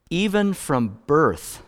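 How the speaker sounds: stretched out, landing on even; slow emphasis. Shown as a demonstration. Pastor repeating the verse slowly for emphasis. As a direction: dwell on Even, then let birth fall. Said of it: "he says in verse five".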